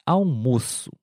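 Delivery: almoço with a closed o; model word. Shown as a demonstration. Teacher models the noun almoço. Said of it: "A próxima palavra é almoço".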